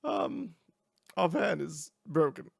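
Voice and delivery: high, loud character voice; squeaky, high-pitched admission; Renee. Acted. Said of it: "you hear Renee's voice go".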